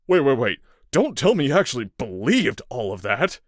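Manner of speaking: nervous, hurried pleading; uneasy. A narrator's reading. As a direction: back off nervously. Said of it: "his voice uneasy".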